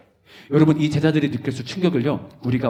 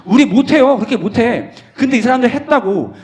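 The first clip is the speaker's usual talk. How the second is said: emphatic exclaim; 8 semitones higher, 7 dB louder than usual. Real, not acted. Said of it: "exclaiming we can't".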